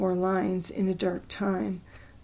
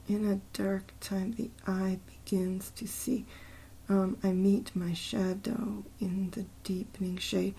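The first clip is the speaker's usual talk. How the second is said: whispered poem line, much softer; reading under breath; 7 dB quieter than usual. Real, not acted. Checking a poem line's meter by whispering it.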